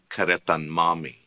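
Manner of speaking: karetan mami with a clear n closing karetan; closing n added. Shown as a demonstration. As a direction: sound the n in karetan mami distinctly. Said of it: "to close off the open vowel".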